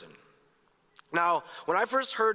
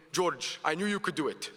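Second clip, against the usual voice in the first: lightly imitated Palestinian-accented dad. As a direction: quote Dad with a hint of his Palestinian accent. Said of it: "has this distinct Palestinian accent".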